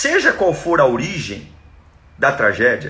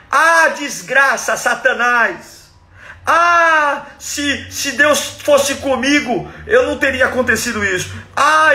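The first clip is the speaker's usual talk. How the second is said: mock despairing rant; 6 semitones higher than usual. Mocking a self-pitying believer, hammed-up wail. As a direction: overplay the self-pity, wailing. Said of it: "Ele não grita".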